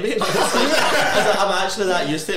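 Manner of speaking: high laughter breaking the words; laughing hard. Real, not acted. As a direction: giggle through the whole line. Retelling, cracking up.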